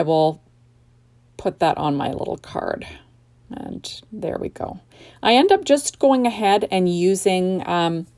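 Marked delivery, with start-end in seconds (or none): 5.2-8.1 talking through a yawn; words stretched by a yawn. Real, not acted. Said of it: "I, I'm yawning".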